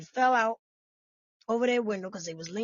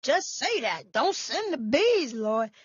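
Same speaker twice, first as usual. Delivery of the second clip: mock prayer. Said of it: "Somebody said".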